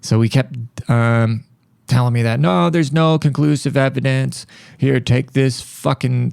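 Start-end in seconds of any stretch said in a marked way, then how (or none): 2.4-6.3 lightly mimicked doctor, higher and slow; mock dismissive doctor. Doctor pushing pills on a patient, mildly mocked dismissiveness. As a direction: draw it out as a mock brush-off.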